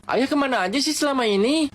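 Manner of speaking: high, tearful plea; crying question. Retold or imitated. Hugging the long-gone father, asking him tearfully, high-pitched. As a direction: ask through tears, hugging him. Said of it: "sambil nangis dan nanya".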